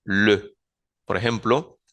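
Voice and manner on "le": le with the French rounded E; le said with rounded lips; French article le. Shown as a demonstration. Teacher modelling le for Spanish learners. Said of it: "Suena con la E francesa".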